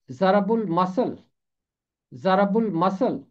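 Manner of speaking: ضرب المثل as zarb ul-masal, stress on zarb; correct pronunciation. Shown as a demonstration. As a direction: repeat ضرب المثل carefully. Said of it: "یہ ہے اس کا درست تلفظ".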